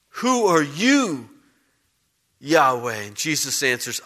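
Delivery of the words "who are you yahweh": slow, hushed awe. Acted. Retaken slowly.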